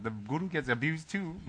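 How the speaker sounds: mock-tearful repeat for laughs; hammed-up cracking voice. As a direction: overplay the emotional crack. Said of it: "my voice is cracking 'cause I'm getting emotional".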